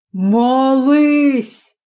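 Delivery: a grim order that allows no reply; father ordering his son to pray, menacing; terrible voice. Acted. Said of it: "страшним голосом повторив Матео".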